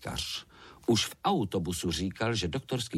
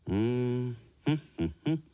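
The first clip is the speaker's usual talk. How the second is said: doctor humming; 4 semitones higher than usual. A narrator's reading. Doctor hums checking thermometer.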